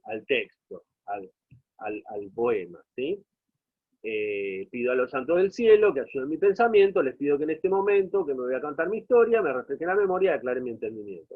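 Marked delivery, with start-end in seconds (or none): 4.7-11.4 rapid rhythmic recital, speeding up toward the end; verse recitation. Acted. Teacher reciting the next stanza to show musicality, rapid recitation. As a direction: rattle off the verse in one run.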